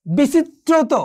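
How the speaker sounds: careful model of বিচিত্রত with a held t; doubled consonant. Shown as a demonstration. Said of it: "দ্বিত্ব হবে".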